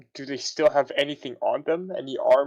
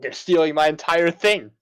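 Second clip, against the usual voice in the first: tag indignant; 5 dB louder than usual. Pretend. Mock outrage at a copycat.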